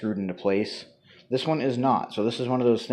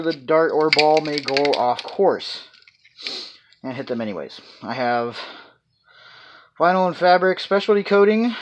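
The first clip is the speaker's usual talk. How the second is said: speaking through a respirator; muffled by respirator; 3 semitones higher than usual. Real, not acted. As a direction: voice dulled behind a mask. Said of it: "I am wearing a respirator".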